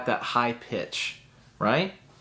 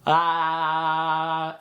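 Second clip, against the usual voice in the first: jaw laugh drill; 3 semitones higher than usual. Shown as a demonstration. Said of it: "pushing your jaw up and down".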